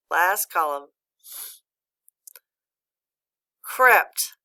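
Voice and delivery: loud, clear word-list reading; teacher modelling the list aloud; model reading. Shown as a demonstration. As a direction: read each word out firmly for the class. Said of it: "You read it, then I'll read it".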